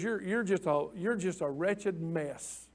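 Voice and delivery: slow grave verdict. Retold or imitated. God's verdict, slowed and softened.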